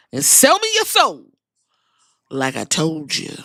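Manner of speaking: lightly voiced cocky wrestler taunting his rival; hammed-up heel promo, a hint of swagger; mock Rock taunt. Rock taunts Cody, retold.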